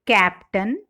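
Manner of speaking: "captain" stressed as CAP-tain; first-syllable stress. Shown as a demonstration. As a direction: cite "captain" slowly, weight on the first syllable. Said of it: "are stressed on the first syllable".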